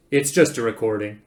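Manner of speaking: loud, firm brush-off; dismissive. Acted. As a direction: insist there is nothing in it. Zaphod brushes off the fear.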